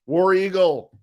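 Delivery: high, loud team cheer; rallying cheer. Real, not acted. Answering a known fan on the stream, rallying cheer. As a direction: call it out to a fellow fan.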